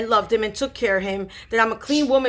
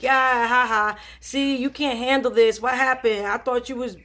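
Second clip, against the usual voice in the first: teasing jeer with a spoken ha-ha; lightly mocking, imitating a gloating brother; mock taunting. Older brother making fun of Elokun, mock taunting. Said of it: "he just starts taunting Elagun".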